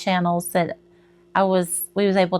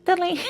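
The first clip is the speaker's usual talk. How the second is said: high little jingle noise; failed attempt at a chime sound; playful high bell imitation; imitated chime; 11 semitones higher, 3 dB quieter than usual. Shown as a demonstration. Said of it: "I can't make that sound".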